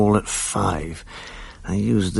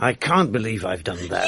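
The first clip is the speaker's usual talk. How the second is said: incredulous laugh; 2 semitones lower than usual. Acted. Accused by upset lover.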